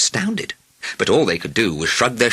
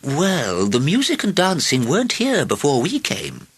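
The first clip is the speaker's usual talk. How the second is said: put-on mildly stern, higher-pitched old lady; rather stern; 6 semitones higher than usual. A narrator's reading. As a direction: put the king straight firmly. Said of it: "said rather sternly".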